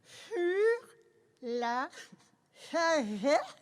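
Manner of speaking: talking around a pencil; pen in teeth. Real, not acted. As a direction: pencil clenched in mouth. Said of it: "avec un crayon dans la bouche".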